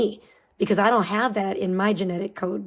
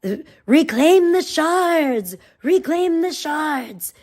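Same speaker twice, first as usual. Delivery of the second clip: slow, higher, louder otherworldly call; eerie summoning voice; 4 semitones higher, 4 dB louder, slower than usual. Pretend. Dark crystal calling to your DNA, slow eerie chant. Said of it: "it's like".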